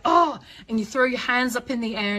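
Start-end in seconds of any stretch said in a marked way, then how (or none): 0.1-0.4 loud, high exasperated outburst; hammed-up burst of frustration; mock exasperation. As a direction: imitate a parent at breaking point. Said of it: "so upset and so angry".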